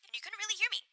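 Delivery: thin, quiet high pass filtered voice; heavily filtered voice. Real, not acted. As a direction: sound far away and filtered. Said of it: "so I was sounding like I was really filtered".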